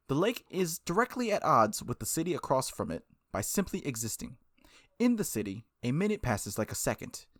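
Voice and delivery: calm, even narration of the protagonist's thoughts; story narration. Acted. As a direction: read the inner monologue gently. Reads visual novel narration over music.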